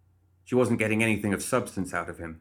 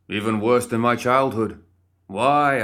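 louder, higher, getting carried away; hammed-up boastful outburst; building bluster; 3 semitones higher, 7 dB louder, slower than usual. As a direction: swell up into a pompous rant.

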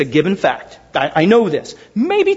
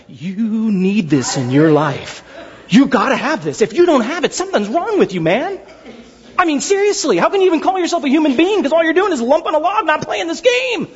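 high, laughing, hammed-up pitch; imitating salesman friend; 5 semitones higher than usual. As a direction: sell it like a pushy salesman buddy. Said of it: "he'll say things like that".

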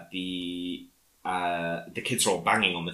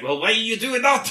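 much higher and louder, breaking into laughter; laughing imitation; 7 dB louder than usual. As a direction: squeak the question through a laugh. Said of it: "And he's like".

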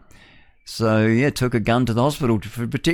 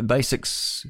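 slow misreading; much slower than usual. Real, not acted. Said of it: "Oh, I see, not well".

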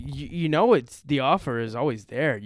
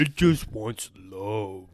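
mock pleading; 4 semitones lower, much slower than usual. Voicing sympathy for the cat.

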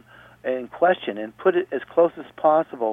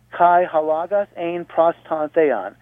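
slow Greek reading; 4 semitones higher, slower than usual. Shown as a demonstration. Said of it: "So, one more time".

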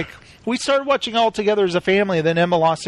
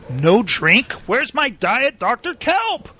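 slow, higher mock whine; customer's complaint; 4 semitones higher, slower than usual. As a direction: whine about the missing drink, drawn out. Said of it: "And he's like".

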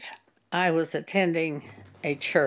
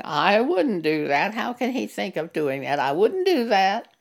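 smug. Retold or imitated. Church member judging a sinning brother, smug. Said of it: "See, that's puffed up".

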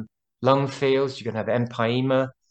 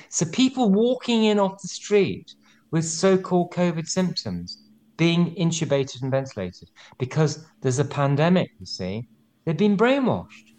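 voice going up; 5 semitones higher than usual. Real, not acted. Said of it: "if my voice is going up a bit".

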